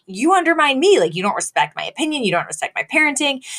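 mock indignant wife. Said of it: "she's like".

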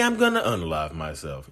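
flat threat. Retold or imitated. Partner delivering the self-harm threat, low flat. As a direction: sink the voice for the final threat. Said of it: "You see how the voice changes".

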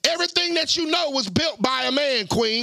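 preacher voice. Acted. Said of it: "I'm talking into my preacher voice".

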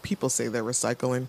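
dismayed. Retold or imitated. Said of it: "he's so dismayed".

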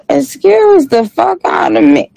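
high-pitched, indignant comeback; mock offense. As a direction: shoot back in a high, affronted voice. Reacts to teasing about her voice.

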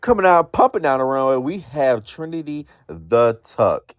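hyped runway host call; runway announcer. Acted.

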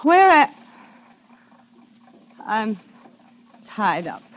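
faint, frightened calling out; barely voiced, scared and confused; weak trapped cry for help. Waking tied up in the dark.

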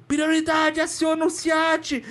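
lieutenant panicking on the radio, calling for an ambulance; desperate radio call. Retold or imitated. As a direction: plead over the radio in panic. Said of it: "E desesperado no rádio".

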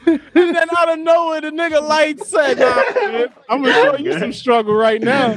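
high laughing retell; can barely get it out through laughter; laughing while telling. Real, not acted. Telling the light-went-out story, laughing hard.

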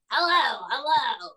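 a hint of Trump at the podium; Trump impression. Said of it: "Donald J. Trump".

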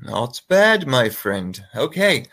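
put-on, drawn-out British accent. Joking with co-hosts over fantasy picks, mock British accent. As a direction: play at being British while picking. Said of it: "Are we British now?".

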